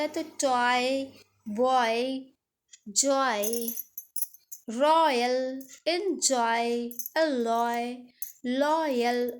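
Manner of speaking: टॉय and एंजॉय with the oy glide; model words. Shown as a demonstration. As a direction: say each oy word clearly. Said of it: "ओ और Y भी साथ में आता".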